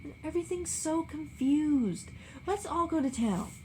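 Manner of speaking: plead, about to cry; on the verge of tears. A narrator's reading. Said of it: "on the verge of tears".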